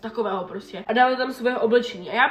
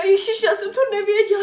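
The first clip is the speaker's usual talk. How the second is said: much higher, laughing mock mother; mom's silly excuse; 9 semitones higher, 5 dB louder than usual. Daughter mocking mom's excuse, much higher with a laugh. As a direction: squeal it like a clueless mom.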